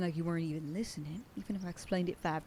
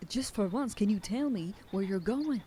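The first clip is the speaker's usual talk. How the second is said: louder, pleading and fed up; pushed-out plea with an edge; exasperated raised voice; 4 semitones higher, 5 dB louder than usual. Acted. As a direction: demand an answer, frustrated. Frustrated partner scolding.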